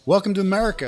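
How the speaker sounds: high, welcoming mock-officer voice; super nice officer. Border officer greets arriving Canadian, super nice and high-pitched. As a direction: welcome them in, imitating a friendly official. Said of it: "he was, like, super nice".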